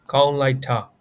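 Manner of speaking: "kaung lai ta" said carefully, Burmese tones; Burmese model phrase. Shown as a demonstration. Teacher models a Burmese phrase for students. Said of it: "In Burmese, we can say".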